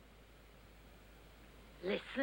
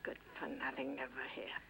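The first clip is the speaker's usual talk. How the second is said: muttering aside; 10 semitones lower, 11 dB quieter than usual. Acted. Grumbling to herself alone.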